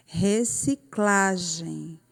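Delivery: slow reciclagem, CLA drawn out; stress on CLA. Shown as a demonstration. Teacher shows pupils the tonic syllable, slowly stressing CLA in reciclagem. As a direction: stretch "reciclagem" and lean on CLA. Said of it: "clá".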